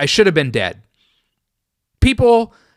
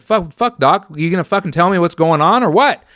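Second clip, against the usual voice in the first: higher, quicker, impatient demand; exasperated outburst; 4 semitones higher, faster than usual. Retold or imitated. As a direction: push the doctor for an answer, fed up.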